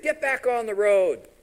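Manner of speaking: high, loud, drawn-out command; shouted order. Retold or imitated. Rider hitting his donkey, shouting an order. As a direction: yell it slowly at a stubborn animal.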